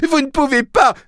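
very high, loud outburst; angry yell. A narrator's reading. Boy pounding the taxi hood, furious yelling. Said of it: "hurla le garçon".

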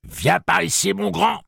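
very high-pitched calling out; crying out. A narrator's reading. Susanna luring the demon toward her, calling out high. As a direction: call him over in a piercingly high voice. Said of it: "Puis elle s'écria".

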